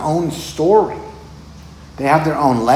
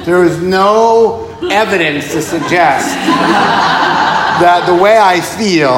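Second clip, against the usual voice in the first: laughing mock voice; 6 semitones higher, 7 dB louder, slower than usual.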